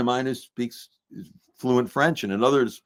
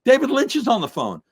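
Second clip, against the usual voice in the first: high, loud, urgent announcement; breaking news from an excited young guy; excited kid announcing; 13 semitones higher, 5 dB louder than usual. Retold or imitated. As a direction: burst in with huge news, pitched way up. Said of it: "kid comes running and says".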